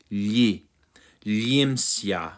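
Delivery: "limsia" as lyeem-syah; L-Y combined sound. Shown as a demonstration. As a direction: blend l and y at the start of "Li, limsia". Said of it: "L Y type combined sound".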